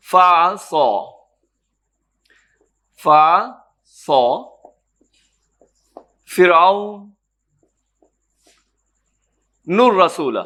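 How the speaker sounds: slow, drawn-out tajweed recitation of فعصا فرعون الرسول; Quranic recitation. Shown as a demonstration. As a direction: chant فعصا slowly with a long vowel, as in a mosque. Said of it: "پس نافرمانی کی فرعون نے".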